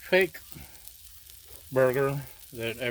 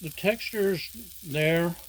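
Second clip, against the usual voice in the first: talking through a mouthful; mouth full; 4 semitones higher than usual. Real, not acted. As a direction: speak around a bite of food. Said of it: "I can't talk with my mouth full".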